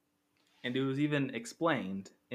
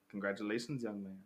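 sinister stranger; 2 semitones lower, 4 dB quieter than usual. Retold or imitated. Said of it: "He's like".

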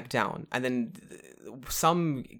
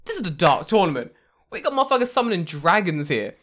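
mock rant; 4 semitones higher, 6 dB louder than usual. Acting boss dismissing sprinters.

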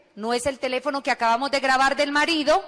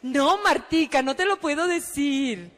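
lightly voiced coy recruiter; coy caller; slower than usual. Recruiter keeps the secret from Martica, mildly coy. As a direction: draw out the refusal teasingly.

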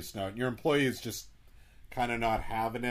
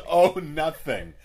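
slow, louder sheepish "Oh, nothing"; sheepish drawn out; 5 semitones higher, 9 dB louder, slower than usual. Pretend. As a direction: stretch it out, playing coy. Repeats the sheepish line.

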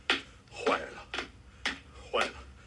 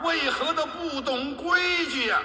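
scolding; 3 semitones higher than usual. Acted. Marshal scolds the new official.

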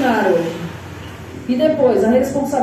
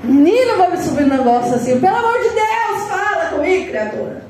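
exasperated plea; 5 semitones higher than usual. Retold or imitated. Exasperated at silent person.

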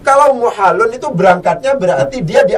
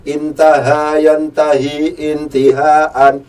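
slow recitation; much slower than usual. Shown as a demonstration. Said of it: "Berasal dari fi'il madhi apa?".

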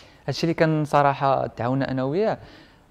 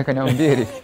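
laughing; 3 dB louder than usual. Real, not acted. Laughing about swimming straight in.

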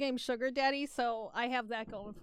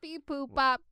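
robot voice; 4 dB louder than usual. Acted. Robot beeping after robot joke.

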